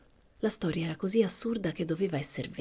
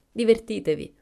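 high, loud send-off; calling out; 6 semitones higher, 7 dB louder than usual. A narrator's reading. Two women leaving the others to dance, calling out. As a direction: toss it back louder and higher as a parting call.

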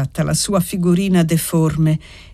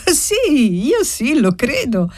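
put-on very high, eager little-girl voice; lively child exclamation; 7 semitones higher, slower than usual. A narrator's reading. Little girl sure he returns tonight, lively exclamation. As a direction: burst out brightly like an eager child. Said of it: "esclamò vivacemente la bambina".

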